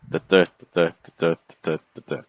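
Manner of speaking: "da DA" repeated evenly, second "da" stressed; iambic beat. Shown as a demonstration. Teacher repeating the sonnet pattern for students, iambic beat. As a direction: chant "da" in light-heavy pairs. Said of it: "the general pattern is gonna be that".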